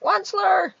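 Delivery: high, loud complaining Lorax cry; querulous croak. Acted. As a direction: call him out in a whiny croak. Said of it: "he cried with a querulous croak".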